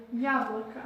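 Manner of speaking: "Яблоко" as YAB-la-ka; Russian pronunciation. Shown as a demonstration. Teacher reading out apple for learners, Russian pronunciation. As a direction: model "Яблоко" with first-syllable stress and reduced final vowels. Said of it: "voilà qu'on peut le lire".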